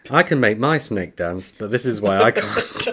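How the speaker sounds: words through giggles; laughing while reading; giggling. Real, not acted.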